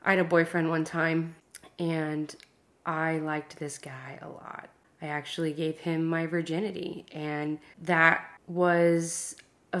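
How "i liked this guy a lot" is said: whispered confession. Real, not acted. Confessing a private feeling.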